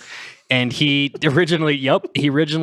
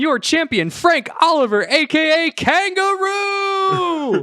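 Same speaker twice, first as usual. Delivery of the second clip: put-on high, slow announcer in Aussie accent; drawn-out Australian ring announcer; slower than usual. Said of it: "is that the accent you were doing".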